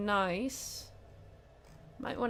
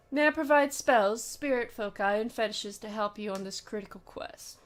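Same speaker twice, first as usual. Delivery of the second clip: a hint of a stern German officer; lightly voiced, grave warning, not much accent; attempted German voice. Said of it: "I wish I could do a German accent".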